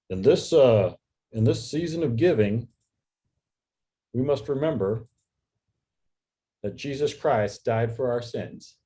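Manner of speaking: mock stilted small-business ad read; stilted local ad guy. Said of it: "he's very stilted".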